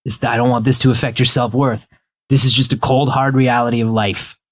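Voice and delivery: put-on low, gentle old cat talking to a kitten; calm the new kitten like a weary old cat. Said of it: "he's like".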